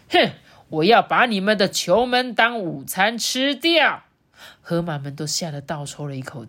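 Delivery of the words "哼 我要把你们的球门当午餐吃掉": slow, swaggering threat; loud rude announcement. Acted. Lulu announces he will eat the goal, blustering loudly. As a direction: announce it like a bully. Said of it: "他大声宣布说".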